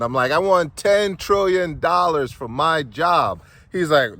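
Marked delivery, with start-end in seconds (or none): 0.3-3.4 very slow, loud, swaggering declaration; milk every word with swagger, high and loud. Retold or imitated. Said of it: "Now I'm feeling all swagnificent".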